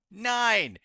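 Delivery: high, loud cheer; excited cheer. Real, not acted. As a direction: celebrate the roll. Cheering a good roll.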